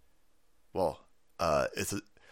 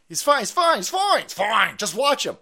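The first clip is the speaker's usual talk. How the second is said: high, loud sing-song; mock reassurance; 7 semitones higher, 6 dB louder than usual. Spokesman insisting he's fine, high mock sing-song. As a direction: chirp it dismissively. Mocking White House line.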